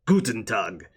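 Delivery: lightly put-on muddled foreign accent; a hint of a bad, placeless foreign accent; El Pyro Flambe. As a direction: introduce yourself in a mild mock multilingual accent. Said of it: "he mixes them up when he's talking".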